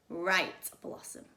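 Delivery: put-on girl turns nasty on the kitten, low and cold; snarled. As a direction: drop the cute act and snarl. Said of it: "Clarissa snarled".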